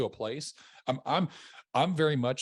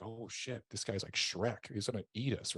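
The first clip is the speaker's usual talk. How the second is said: scared onlookers; 7 dB quieter than usual. Retold or imitated. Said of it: "people are like".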